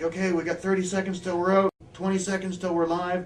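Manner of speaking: mock crew countdown call. Crew warns wrestler before live walk, called-out countdown. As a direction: imitate a crew member calling out time cues.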